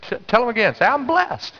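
high, emphatic "I'm blessed"; rally the crowd with a jump in pitch; convincing declaration. Shown as a demonstration. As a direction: say it like you want it believed. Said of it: "I don't think you convinced him yet".

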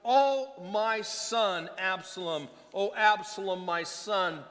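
mild mock wail of a grieving father; loud grieving cry. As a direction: cry it out loud in grief, voice lifted on Oh. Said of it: "the king cried with a loud voice".

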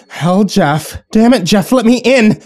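losing her temper at the door; wife yelling at her husband through the door; rising anger. Acted.

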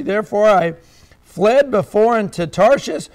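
earnest, measured Bible reading; a solemn scripture read from the pulpit. Acted. Reads Jonah's prayer from scripture.

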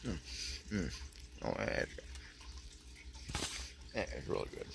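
chewing while talking; talking between bites of pastry; mouth full. Real, not acted. Seen 1: bites chocolate pastry at 0.4–1.1, chews with cream on lips.

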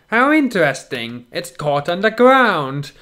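slow, sinister villain drawl. Acted. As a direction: savour each word like a scheming villain. Villain speaks in read-aloud story.

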